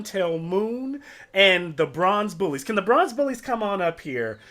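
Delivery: proud announcer mom. Acted. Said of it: "She says".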